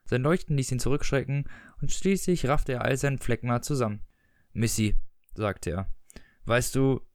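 measured, even reading-aloud voice; story narration. A narrator's reading. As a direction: read the excerpt like an audiobook narrator. Reads the book excerpt aloud.

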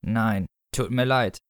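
tiefer und langsamer, leicht bedauernd gesprochen; bedauernder Tod. Acted. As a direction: ein Hauch von einem bedauernden Sensenmann. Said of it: "bedauerte er". (der Tod bedauert langsam und etwas tiefer)

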